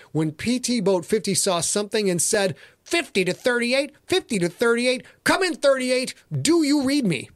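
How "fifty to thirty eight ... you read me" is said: higher, pressing call repeated into the radio; urgent radio call. Acted. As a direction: hail them again and again. Radio call between boats.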